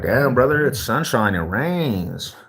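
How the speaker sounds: ribbing a grumpy stranger in a lightly put-on voice; mock sympathy. Streamer teasing a grumpy street guy, lightly mock-sympathetic. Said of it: "I was like".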